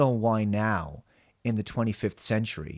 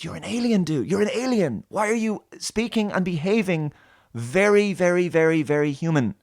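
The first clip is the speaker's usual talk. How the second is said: much higher, much louder incredulous protest; exasperated outburst; 9 semitones higher, 6 dB louder than usual. Real, not acted. Reviewer shouting at the alien boyfriend, exasperated and loud. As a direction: yell at the screen in disbelief.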